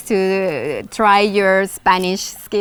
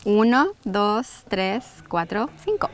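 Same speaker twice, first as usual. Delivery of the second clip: over enunciating; 3 dB quieter than usual. Shown as a demonstration. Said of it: "numbers one to five".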